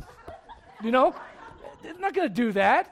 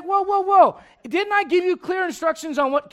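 exasperated mom; 6 semitones higher, 5 dB louder than usual. Acted. Mom answers back-talking kid.

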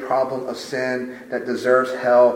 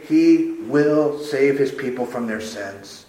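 slow, definitive; slower than usual. Shown as a demonstration. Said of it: "very simply and definitively".

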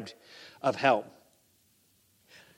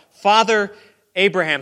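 raised, pleading call to Abraham; crying out; 5 semitones higher, 8 dB louder than usual. Acted. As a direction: call out high and loud, begging. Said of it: "he cries out".

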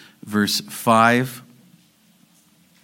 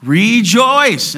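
higher and louder, slow and forceful; emphatic; 9 semitones higher, 8 dB louder, slower than usual. Real, not acted. Pastor hammers the verse into listeners' heads, loud. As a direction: drive the word home. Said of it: "drill it in".

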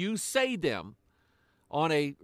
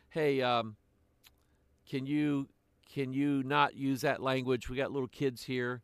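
softer, polite request to strangers; 4 semitones lower, 5 dB quieter than usual. Retold or imitated. Grandfather politely asking strangers not to swear, softly. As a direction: ask kindly but firmly, a little quieter. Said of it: "I will very politely say".

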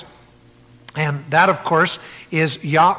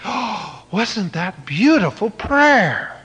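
mock impressed gasp; 3 semitones higher, slower than usual. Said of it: "everybody's so impressed".

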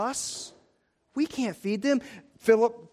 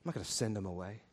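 much lower and softer, a calm refusal; Jesus refusing gently; 11 semitones lower, 13 dB quieter, much faster than usual. Retold or imitated. Jesus answering the disciples, low and gentle. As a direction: settle it quietly and firmly. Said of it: "As Jesus always says".

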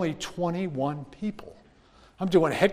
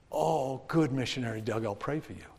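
much softer, low, offhand; quiet breezy dismissal; dismissive translator; 5 semitones lower, 12 dB quieter than usual. Retold or imitated. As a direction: brush him off gently. Translator brushes him off.

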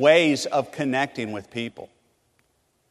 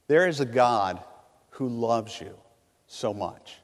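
tender hush; 3 semitones lower, 4 dB quieter than usual. Real, not acted. Tender sermon climax.

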